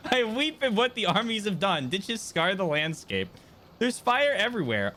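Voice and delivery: earnest, lightly voiced mournful half-elf; character monologue. Streamer reads game character's lament, earnest and mournful.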